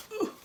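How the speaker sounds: strained ooh while lifting; effort grunt. Real, not acted. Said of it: "sorry for the grunting and groaning".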